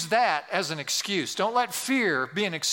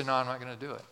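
low, steady resolve; acted low-key firmness; 6 semitones lower than usual. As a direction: say no with calm conviction, pitched down. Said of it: "And you say".

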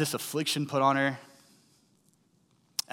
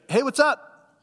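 hesitant greeting; 12 semitones higher, 5 dB louder, slower than usual. Retold or imitated. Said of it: "when that quiet".

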